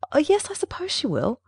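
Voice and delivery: high-pitched, hurried reply; a flustered quick answer, pitched high. A narrator's reading. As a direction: answer hastily, voice jumping up. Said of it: "she answered hurriedly".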